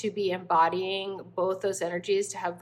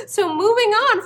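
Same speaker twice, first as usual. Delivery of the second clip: laughing while talking; 13 semitones higher, 10 dB louder than usual. Real, not acted. Still laughing, louder.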